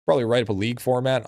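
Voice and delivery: normal talking voice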